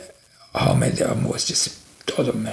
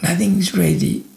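higher-pitched, exasperated complaint, not shouted; furious husband; 6 semitones higher than usual. Retold or imitated. Fed-up husband grumbling about the messy house, exasperated. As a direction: act out a fed-up husband's grievance. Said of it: "So he was so furious".

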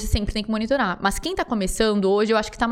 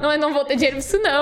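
laughing refusal; 4 semitones higher, much faster than usual. Retold or imitated. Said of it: "eu falava, "Mano".

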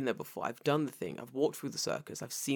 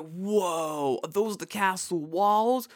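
tabloid tv host; 5 semitones higher, 6 dB louder, much slower than usual. Retold or imitated. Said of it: "and then it was like".

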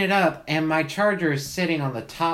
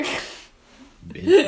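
mock outraged shriek; 13 semitones higher, 5 dB louder than usual.

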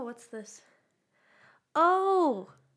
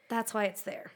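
whispering; 2 semitones lower, 5 dB quieter than usual. Real, not acted. Whispered aside.

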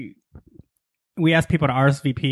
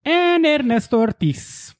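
high, slow announcer intro; 11 semitones higher, slower than usual. Acted. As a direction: draw your name out like a host. Announcing his name in intro.

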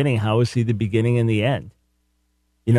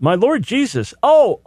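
mock startled cry; 11 semitones higher than usual. Mocking how some read Thomas's words, high startled cry. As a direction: act out a sudden shocked outburst. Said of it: "as some have argued".

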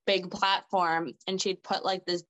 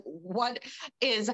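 slow, higher-pitched mock disbelief; retold bewilderment; 4 semitones higher, slower than usual. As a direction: draw out each word, baffled. Retold bewilderment at sudden tears.

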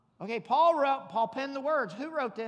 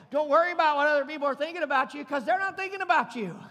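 driven home louder and quicker; louder, faster repeat; 3 semitones higher, 6 dB louder, faster than usual. Shown as a demonstration. Preacher repeating the point to the congregation, louder and faster. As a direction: punch it harder the second time. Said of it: "I'm gonna say it again".

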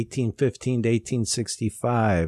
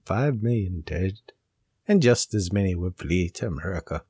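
dramatic reading. Retold or imitated. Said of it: "the slightest bit dramatic".

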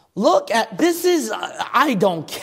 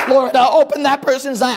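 louder, higher pleading prayer; 6 semitones higher, 5 dB louder than usual. Pretend. Pastor voicing a grieving believer, pleading prayer. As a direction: cry out to the Lord for a lost one.

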